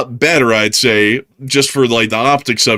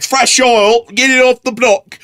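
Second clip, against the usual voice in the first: mock street hawker; 10 semitones higher, slower than usual. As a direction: hawk the oil like a street vendor. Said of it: "It's like".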